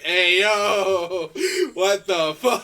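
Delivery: loud, acted outrage; mock offended. Imagining a friend coming downstairs, loudly mock offended. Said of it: "who would take most offense to it".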